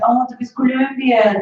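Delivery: slow, drawn-out "Colombian" with a wrong middle vowel; German-style mispronunciation. Retold or imitated. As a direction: mimic locals mangling "Colombian", dragging it out. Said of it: "everybody's like".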